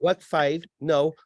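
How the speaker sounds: lightly voiced robot searching its files; a hint of glitching robot recital; malfunctioning robot. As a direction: mimic a machine running through options. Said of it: "It's a malfunctioning robot".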